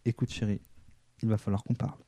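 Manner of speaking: soft, low resigned voice; low, hushed and let down; dejected. Acted. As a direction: quietly break it to a partner. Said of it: "ce moment de dépit et on fait".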